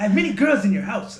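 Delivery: high, loud, quick impression; comic high-toned holler; Moody's eccentric voice. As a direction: blurt a shouted boast in a high pitch. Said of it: "he has a fucking really eccentric voice".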